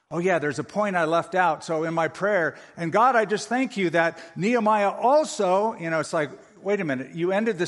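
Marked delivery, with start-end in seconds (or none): 0.1-5.7 mock sermon prayer. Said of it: "Preachers are notorious for this".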